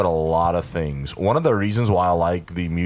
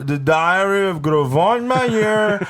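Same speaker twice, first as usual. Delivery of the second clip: squeaky high cartoon voice; goofy high voice; 12 semitones higher, 3 dB louder than usual. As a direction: pitch it high and silly. High goofy voice pitching movie.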